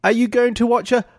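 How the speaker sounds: high, slow, drawn-out mock English voice; Austin Powers. Co-host mocks the audition accent, Austin Powers impression. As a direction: stretch it out in a hammy British spy voice. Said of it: "Austin Powers stuff right there".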